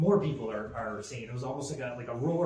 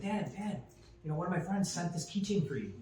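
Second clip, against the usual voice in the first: higher, eager little-kid voice imitated; excited young son; 6 semitones higher than usual. Son eagerly telling dad about a gift, imitated high kid voice. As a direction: play the son rushing to tell his dad. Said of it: "He's like".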